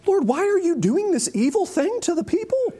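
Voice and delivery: high, anguished plea to God; pleading Moses. Pretend. Moses complaining to the Lord about his mission, high anguished plea. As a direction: cry up at the Lord in protest.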